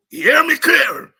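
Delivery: slow, loud crowd-rousing call; fierce shout. Real, not acted. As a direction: hammer each word out to the crowd. Rally speaker calls out to crowd.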